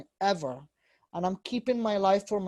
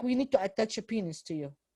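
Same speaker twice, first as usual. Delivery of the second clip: put-on mockery, much quieter; 4 dB quieter than usual. Retelling what her father said to her, mimicking his mocking tone. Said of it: "in a mocking words also".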